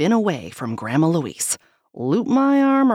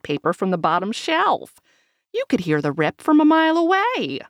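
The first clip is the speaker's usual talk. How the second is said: gossipy grandma. Acted. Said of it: "Grandma Louise says".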